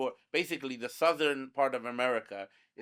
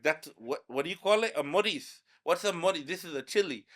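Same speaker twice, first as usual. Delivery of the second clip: higher, mock-puzzled questioning; baffled classmates; 6 semitones higher than usual. Classmates puzzled by a Bangla word for chili, mock bafflement. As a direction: imitate confused kids querying a strange word.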